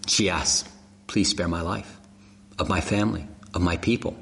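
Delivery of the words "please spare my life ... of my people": humble plea. Acted. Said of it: "In a very lovely and humble way".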